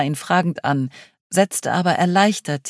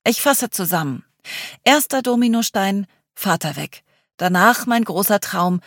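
put-on lively young woman telling a sad tale; dramatic self-mocking summary; Charlie voice; 6 semitones higher, 3 dB louder than usual. Charlie tells her story to group.

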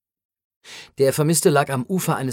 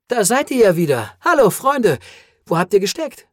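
higher and louder, clear and firm; 5 semitones higher, 4 dB louder than usual. A narrator's reading. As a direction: speak firmly, suddenly lucid. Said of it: "sagte mit fester Stimme". (mit fester Stimme, höher und lauter)

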